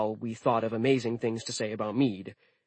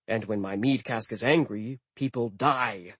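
menacing build. Pretend. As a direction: let angry rise then drop ominously on people die. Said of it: "I waited for him to say".

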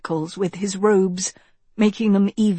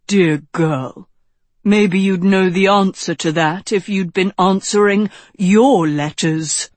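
loud, pointed mentor's reproof; lightly chiding wizard; 7 dB louder than usual. Acted. Wizard replying to girl who ignored letters, chiding. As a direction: scold her gently as the old wizard. Narrator voices Merlin rebuking Agatha.

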